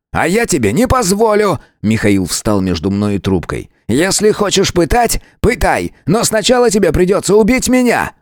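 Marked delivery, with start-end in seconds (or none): 0.1-1.6 much higher, defiant cry; Misha, defiant. A narrator's reading. Миша встаёт на защиту. 3.9-8.1 much higher, defiant cry; Misha, defiant. A narrator's reading. Миша заслоняет арестованного.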